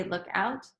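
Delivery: OUT lifts like a question; tentative "look OUT?". Shown as a demonstration. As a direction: ask it, voice rising on OUT. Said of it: "like a question".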